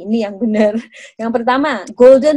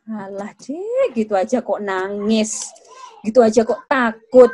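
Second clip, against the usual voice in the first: put-on slow, belittling brush-off of a crying child; dismissive; slower than usual. Shown as a demonstration. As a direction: shrug off the child's fear, drawn out. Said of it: "Dismissing atau meremehkan". (meremehkan dengan nada pelan dan acuh)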